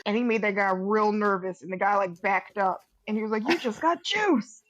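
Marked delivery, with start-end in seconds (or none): 3.5-4.6 high-pitched, drawn-out catchphrase; mock gotcha call. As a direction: crow it slowly, pitched up. Acting out the prank catchphrase.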